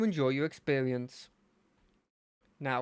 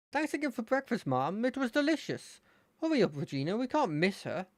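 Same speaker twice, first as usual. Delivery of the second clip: put-on higher, cheerful boy's voice; chirpy friend in a hurry; nice-ish friend voice; 6 semitones higher than usual. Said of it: "nice-ish voice".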